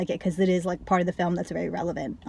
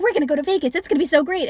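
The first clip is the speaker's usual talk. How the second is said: high, excited mock voice; dreamy and clueless about Vegas; mocking Jackie; 7 semitones higher, 3 dB louder, much faster than usual. Jackie gushing to Lou about Vegas, high excited mock voice. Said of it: "she is just like".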